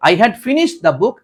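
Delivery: very slow, each word laid out; teacher reading the answer slowly; slow model read. Shown as a demonstration. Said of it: "reads corrected sentence".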